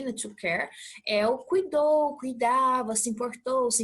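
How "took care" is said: "Took care" run together on one k; linked sounds. Shown as a demonstration. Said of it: "aí emenda o som aí".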